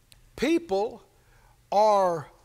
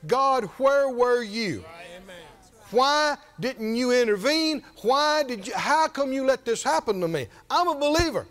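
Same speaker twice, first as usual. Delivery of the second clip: mild accusing complaint. Acted. Believer asking God why He let it happen, mildly accusing. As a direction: put the blame on God, mildly. Voicing her annoyance at God.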